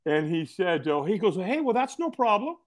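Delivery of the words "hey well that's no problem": easygoing reassurance. Retold or imitated. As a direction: wave it off lightly as the friendly stranger. Voicing the easygoing stranger, reassuring.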